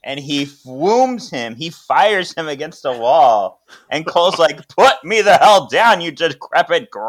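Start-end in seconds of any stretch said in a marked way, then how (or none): 4.8-7.1 high, loud furious protest; angry yell. Retold or imitated. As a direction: yell at him while pinned to the wall. Cole pinned, yelling.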